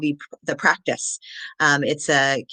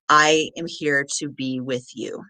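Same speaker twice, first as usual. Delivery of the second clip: calm reassuring intro; slower than usual. Shown as a demonstration. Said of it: "most important part of my introduction".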